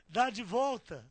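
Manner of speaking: loud retold command; shouted order. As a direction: bellow it like an order to the driver. Acted order to driver.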